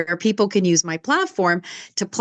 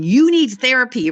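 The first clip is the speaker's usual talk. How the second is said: a mild mock yell, a bit louder; retold yell; 5 semitones higher, 4 dB louder than usual. Sister telling her brother off, mild mock yell. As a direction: jab at the brother, half-hearted shout. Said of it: "yelling at my brother and saying".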